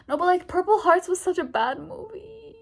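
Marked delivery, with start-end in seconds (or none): 1.2-2.6 drawn-out, higher lament; exasperated rant. Real, not acted. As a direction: whine it out in exasperation. Ranting about a bad film.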